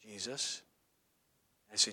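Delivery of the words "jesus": hushed, low little echo; small child repeating. Retold or imitated. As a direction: repeat very softly after a parent. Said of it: "And they'd go".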